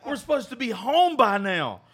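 high, loud, furious yelling as he reenacts the moment; hungover rage. Retold or imitated. Waking up hungover in the car, angrily yelling at friends. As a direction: bark it like you just woke up mad. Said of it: "And I'm mad as fuck".

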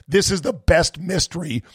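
getting carried away by the mystery; excited. Real, not acted. Host gushing to listeners about the monolith, excited. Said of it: "I'm getting all excited".

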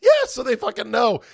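high, loud outburst; emphatic agreement. Real, not acted. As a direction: jump in loudly, worked up. Emphatic agreement about iPad tracking.

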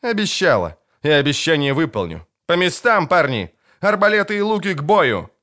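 captain ordering her men to battle stations; commanding order. A narrator's reading. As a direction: command the archers to ready.

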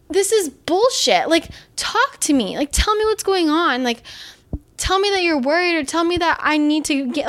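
a mock outraged plea, pitched high; retold outburst. To friends avoiding her weight, a high retold outburst. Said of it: "And I was like".

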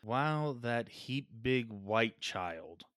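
slow, stilted mock chief voice; reluctantly voicing a clichéd chief; mock stereotype chief. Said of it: "try it again with a Native American accent".

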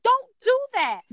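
high-pitched don't-do-that; high scolding plea. Retold or imitated. Wife startled by husband, high scolding plea. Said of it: "And I'm like".

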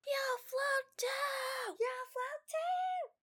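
put-on high, very slow creepy old man. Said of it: "the old man voice that makes it more disturbing".

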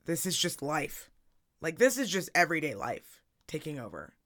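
hoarse, lost voice; talking with almost no voice left; raspy whisper. Real, not acted. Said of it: "I have no voice".

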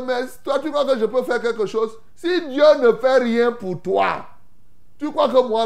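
high-pitched, protesting comeback; incredulous rebuff. Acted. President answering the people who beg him, incredulous rebuff. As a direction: push the request back in disbelief.

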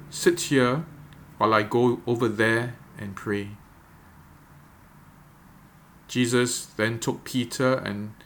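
measured, deliberate Bible reading with long pauses; slow scripture reading. Real, not acted. Pastor reading the Gethsemane passage for meditation, slow and deliberate. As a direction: read it out phrase by phrase, leaving room to picture it. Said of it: "I'm gonna read it very slowly".

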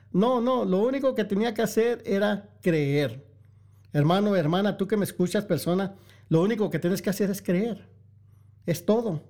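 pleading sermon climax; fervent preaching. Real, not acted. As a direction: press the call home, pitch up. Preaching at full force.

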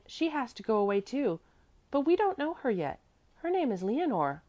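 put-on high, chattering child's voice; little girl Mäzli. A narrator's reading. Little girl telling about the song, high child's voice.

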